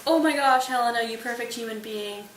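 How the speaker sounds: loud, high burst, then easing; hammed-up love at first sight; smitten gushing. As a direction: burst out in mock adoration. Waking Demetrius falls in love.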